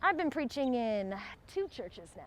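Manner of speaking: lightly imitated country accent; a touch of rural Southern country preacher. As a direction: put on a mild country accent. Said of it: "in a very country accent".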